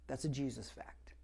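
breathy whisper of a secret truth; whispered aside. Real, not acted. Pastor to congregation, hushed whisper. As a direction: lean in and whisper it.

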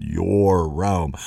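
"your" held long before "Rome"; a deliberate lean on "your"; stress on YOUR. Shown as a demonstration. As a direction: linger on "your" to emphasize it. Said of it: "I just want to emphasize that word".

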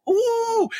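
a high, drawn-out ooh of delight. Real, not acted. Guest hears integration, lets out an excited ooh. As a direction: swoop up as if it hits home.

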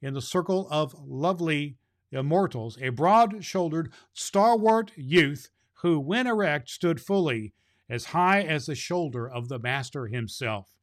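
measured storybook reading voice; story narration. A narrator's reading. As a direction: read the chapter to the children, unhurried. Reads the book chapter aloud.

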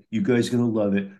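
a hint of a Chicago local's accent; retold Chicago guy, lightly accented; put-on Chicago accent. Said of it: "I love the accent".

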